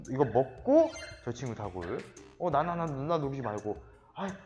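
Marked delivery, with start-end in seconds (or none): 4.1-4.3 loud high groaning complaint; frustrated outburst. Real, not acted. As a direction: cry out that it's hard.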